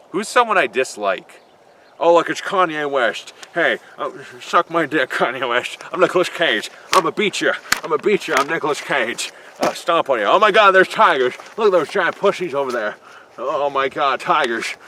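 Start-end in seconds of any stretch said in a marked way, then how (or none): 3.5-14.7 swagger and shout like a cartoon Nicolas Cage; Nicolas Cage impression. Nicolas Cage taunting a rapper, a hammed-up brash yell. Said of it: "that's a horrible Nicolas Cage".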